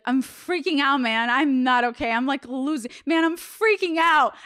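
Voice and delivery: half-joking shroom panic; mock freaking out. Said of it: "and be like".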